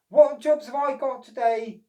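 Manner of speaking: eager to start the day; wondering. Acted. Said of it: "he wondered".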